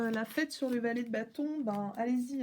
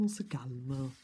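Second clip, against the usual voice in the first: whispered calm down; 9 semitones lower than usual. Acted. Calming herself, repeated.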